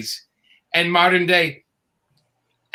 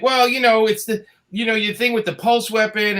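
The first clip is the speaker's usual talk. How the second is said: producer voice; 5 semitones higher than usual. Retold or imitated.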